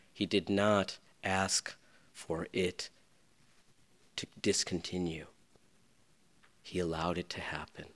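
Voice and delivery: whisper. Real, not acted. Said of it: "whispered in sermon".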